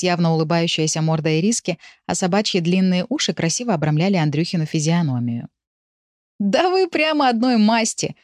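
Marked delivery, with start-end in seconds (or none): 6.4-8.2 high, drawn-out amused exclamation; understated acted mirth, stretched out; amused guffawing. A narrator's reading. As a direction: tease with mild hilarity, pitched up. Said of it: "хохотал Лёха".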